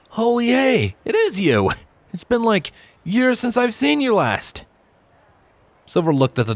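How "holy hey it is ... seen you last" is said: higher, eager stallion voice; excited Trailblazer. Acted. Old schoolmate greeting Silver, high and excited. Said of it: "twinkling with excitement".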